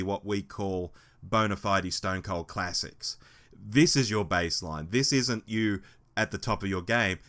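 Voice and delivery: rough, hoarse voice; hoarse voice, a bit aggressive. Real, not acted. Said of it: "with this hoarse voice".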